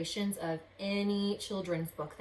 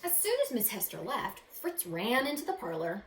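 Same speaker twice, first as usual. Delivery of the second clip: expressive read-aloud storytelling; story narration. A narrator's reading. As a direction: read it like a picture book to kids. Reads picture book aloud.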